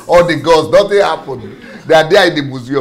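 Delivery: talking through real laughter; high, loud, laughing disbelief. Real, not acted. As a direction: laugh out the words, amused at the irony. Laughs at stolen gods.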